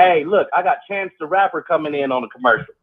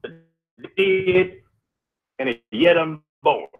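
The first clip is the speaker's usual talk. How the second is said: Negan; 3 semitones lower than usual. Acted. Co-host recites the proverb to the host, light Negan impression. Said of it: "that was my Negan voice".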